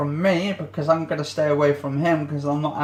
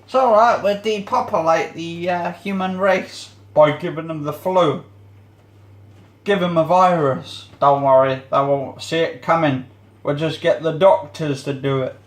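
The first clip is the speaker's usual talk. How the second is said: sinister government voice; 3 dB louder than usual. Retold or imitated. Mocking the government's plot.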